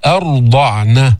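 slow chanted أرضعن with a full, dark r; drawn-out أرضعن, weighty r; heavy ra. Shown as a demonstration. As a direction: thicken the ر of أرضعن after a light hamza. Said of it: "فخم الراء".

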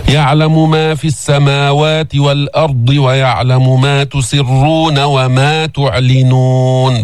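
slow melodic tajwid recitation; measured Quranic recitation. Shown as a demonstration. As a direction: chant the verse slowly.

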